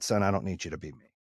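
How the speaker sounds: low, soft, measured fatherly talk; gently level with your son, retelling it; retold humbled sincerity. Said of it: "it was a humbling moment for me".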